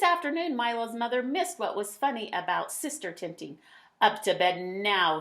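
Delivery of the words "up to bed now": loud stern command to bed; thundered order. Acted. Mother ordering Milo to bed, loud and stern. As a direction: boom it like an angry mother. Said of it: "she thundered".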